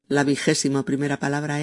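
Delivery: fast, brisk "la vigésimo primera palabra es"; quick restatement. Shown as a demonstration. Presenter quickly repeating the word number.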